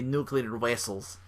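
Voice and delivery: put-on slow stereotypical Russian accent; bad Russian accent. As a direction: say it slowly like a movie Russian. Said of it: "really bad stereotypical Russian accent".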